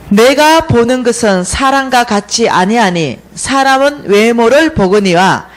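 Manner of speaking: slow, emphatic verse recital; scripture proclamation. Retold or imitated. She quotes God's word to Samuel, slow emphatic proclamation. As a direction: declare the verse in weighty phrases. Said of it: "사무엘상 십육 장 칠 절 말씀으로".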